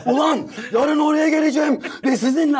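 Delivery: high-pitched mock rage; retold angry threat, pitch jumping up; imitated furious father. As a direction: act out a fuming dad on the phone. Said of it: "adamın ağzına alev çıkıyor".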